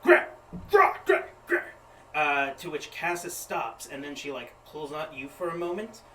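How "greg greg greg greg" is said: repeated loud calls of Greg; yelling a name. Acted. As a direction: shout the name over and over. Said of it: "they yell".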